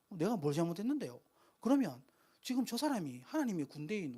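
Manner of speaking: mildly indignant younger-brother backtalk; acted defiant protest. David pushing back at his eldest brother, mildly defiant. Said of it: "이런 태도를 취한 거예요".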